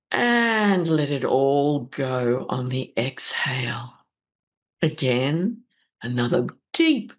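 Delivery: slow, gentle meditation voice; guided meditation. Acted. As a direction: ease them into calm, slowly.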